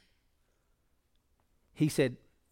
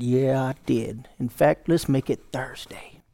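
defiant slow answer; 5 dB louder, slower than usual. Acted. Defiant reply to the screaming devil.

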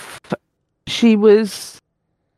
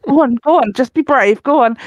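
higher coaxing to the dog; encouraging coax; 5 semitones higher than usual. Retold or imitated. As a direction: egg the nervous dog on. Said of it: "And I was like".

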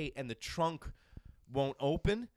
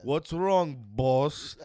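loud driver impression; 9 dB louder, much slower than usual. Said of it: "they always call you boss".

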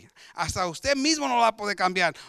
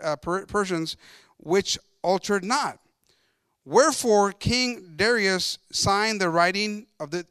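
slow, declaimed Bible verse; deliberate pulpit reading, opening strongly; scripture reading; 2 semitones higher, 3 dB louder, slower than usual. Acted. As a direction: read it out to the congregation, stretching phrases.

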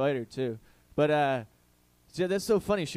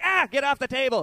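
higher, louder startled yelp; mock alarm; 9 semitones higher, 6 dB louder than usual. Comic recoiling from the German woman's offer, mock alarm. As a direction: yelp it as if under attack.

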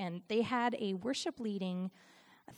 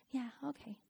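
very soft, imitated brush-off; noncommittal brush-off; 10 dB quieter than usual. Leader brushing off her offer to help, noncommittal.

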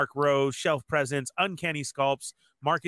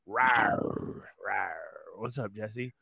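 tiny squeaky trying to roar; 6 semitones lower, 5 dB quieter, much slower than usual. Pretend. Greeting Jurassic Jester.

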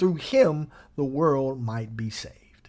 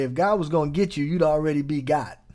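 quoting a preacher; faster than usual. Retold or imitated. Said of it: "I heard a man of God say".

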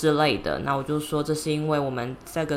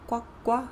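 duck voice; 8 semitones higher, 4 dB quieter than usual. Shown as a demonstration. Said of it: "something like quack".

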